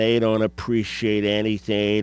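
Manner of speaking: mock the grumbling elder's view; dismissive rant. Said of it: "maybe that's your attitude".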